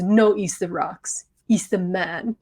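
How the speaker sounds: low, slow imitated Nicaraguan accent. Contractor correcting a client's praise, Nicaraguan accent. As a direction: imitate a Nicaraguan stonemason, softly and slowly. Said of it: "I'm gonna do some accent work again".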